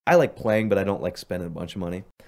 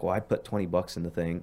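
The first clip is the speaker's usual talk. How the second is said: unexcited deadpan; 3 semitones lower, 5 dB quieter than usual. Retold or imitated. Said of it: "It wasn't, like, excited".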